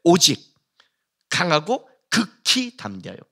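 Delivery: "오직" firm, "극히" slowly drawn out; emphatic repetition. Acted. Preacher repeating the second command, "극히" stressed and drawn out. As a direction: stretch "극히 담대하여" slowly for emphasis. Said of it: "반복도 강조인데".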